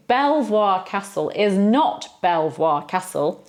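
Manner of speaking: "Belvoir" said as bel-VWAR, the French way; French spelling pronunciation. Shown as a demonstration. Teacher shows the tempting wrong reading. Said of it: "pronounced like that, the French way".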